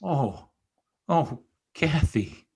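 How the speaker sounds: breathy whisper over her bed; whispered grief. Acted. Heathcliff at dying Kathy's bed, whispering. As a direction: whisper her name in despair.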